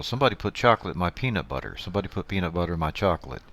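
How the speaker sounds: put-on quick, bright old TV ad read; chipper 1950s ad. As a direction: rattle it off like a retro commercial. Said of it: "This is beginning to sound like the old, uh, commercial".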